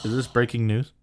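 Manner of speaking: breathy unvoiced whisper. Real, not acted. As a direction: whisper it like breaking news. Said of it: "Why are you whispering?".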